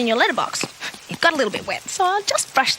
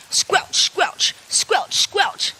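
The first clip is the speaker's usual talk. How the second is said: rain patter sounds; 4 semitones higher, much slower than usual. Shown as a demonstration. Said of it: "makes this rain sound".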